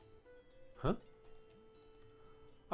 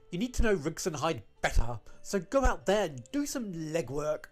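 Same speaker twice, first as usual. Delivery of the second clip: a hint of a stern mother's order; quoting mother; 3 dB louder than usual. Repeating mother's orders to the others, lightly mimicked. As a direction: push out each instruction, slightly louder. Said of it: "My mother told me to, and I quote".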